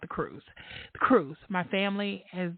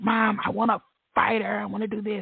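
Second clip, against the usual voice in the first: mock tearful crying voice, higher and louder; 4 semitones higher, 4 dB louder than usual. Retelling a son's upset phone call about a fight: imitating someone crying. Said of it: "it was obvious that he was crying".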